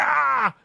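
high, drawn-out "ah" of pain; startled yell. Acted. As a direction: cry out as if screamed at in the ear. Acting out reaction to kid's scream.

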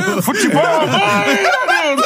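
squeaky high teasing through laughter; laughing mock jeer. Retelling how the fans teased Iranildo, high laughing jeer. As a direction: tease him like the crowd, barely holding in laughter. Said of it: "crowd jeer retold".

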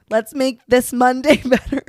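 laughing bursts as she goes. Real, not acted. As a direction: giggle it out. Laughing while talking.

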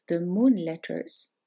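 moon letters slow, moon weighted; stress on moon. Shown as a demonstration. Teacher naming the moon letters, stress moon. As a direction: lean slowly into moon. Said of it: "One group is called the".

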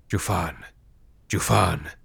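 echoing ethereal energy being. A narrator's reading. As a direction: murmur it like distant ghosts. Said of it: "they murmured".

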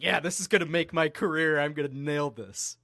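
lightly voiced earnest singer. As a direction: play the singer who thinks this makes his career. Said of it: "he's so serious about it, like, so earnest".

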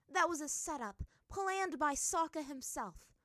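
high, loud, angry correction; glaring retort. A narrator's reading. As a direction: fling it back with a glare. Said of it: "the water princess glared".

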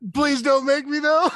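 mock pleading. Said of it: "You're like".

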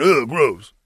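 imitating a grossed-out reaction; mock disgust. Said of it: "we're all of a sudden saying".

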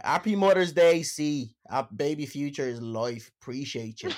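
mock Irish accent; hammy Dublin accent reading. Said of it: "let me read them out in Dublin accent".

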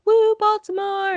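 high, loud, drawn-out mock cheer; imitated fan cheer. Mimicking Orioles fans at the game, cheering. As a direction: whoop like a hometown crowd.

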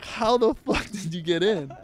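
high, slow, drawn-out disbelief; incredulous. Retold or imitated. Stunned pair questioning the gatecrasher, incredulous. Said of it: "they're just so confused".

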